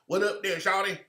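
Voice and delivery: mock put-on Southern slang accent; imitated exaggerated slang. White folks around black folks, lightly mocked slang accent. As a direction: lightly imitate someone faking Southern street talk. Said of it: "Just like white folks get around black folks".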